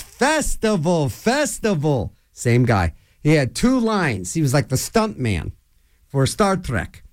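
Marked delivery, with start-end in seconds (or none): 0.0-2.1 slow, stretched mock call; imitated yell. Stunt man's line from Star Trek, mock yell to the sky. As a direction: call it out long and drawn, without real volume. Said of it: "looks up to the sky and goes".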